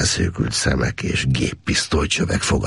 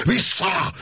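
roaring shout. A narrator's reading. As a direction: roar it to drive the tiger back. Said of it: "elüvöltötte magát".

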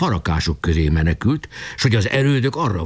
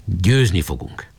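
slow, composed statement; calm assurance; slower than usual. Acted. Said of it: "Boka most már nyugodt volt". (nyugodt, lassú, magabiztos kijelentés)

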